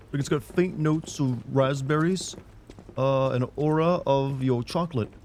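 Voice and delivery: lightly lofty wine-reviewer talk. Shown as a demonstration. Showing how to describe a wine, as a mock reviewer. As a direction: lightly parody a wine critic, pitched a little up. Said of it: "describe your wine like you're talking about a symphony".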